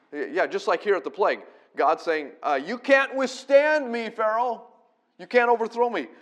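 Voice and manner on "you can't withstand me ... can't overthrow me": God's booming challenge to Pharaoh. Acted. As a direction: thunder it at Pharaoh as God. Preacher voicing God to Pharaoh.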